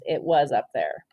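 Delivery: soft breathy whisper of delight. A narrator's reading. To the child, a hushed whisper. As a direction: hush it like a secret.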